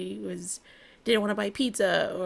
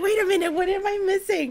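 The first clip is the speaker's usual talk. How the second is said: mock confusion; 11 semitones higher, 6 dB louder than usual. Acting her own confused reaction.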